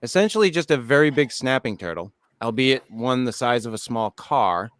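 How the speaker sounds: measured documentary-style narration; even, scripted storytelling delivery; article read-aloud. Acted. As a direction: read the write-up to your co-hosts. Reads a list article aloud.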